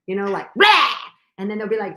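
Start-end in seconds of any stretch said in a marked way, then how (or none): 0.6-0.9 mock weird yell. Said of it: "weird him".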